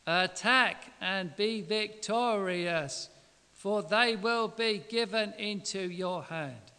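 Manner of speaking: slow, drawn-out mocking sarcasm; sarcastic. Shown as a demonstration. Micaiah mocking the king with slow sarcasm. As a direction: drag it out so nobody believes it. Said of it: "I think it was said like this".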